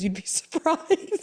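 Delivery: high, slow, with a laugh; dry knowing. Retold or imitated. Doctor about vitamins, slow dry remark. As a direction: say it slowly, knowingly.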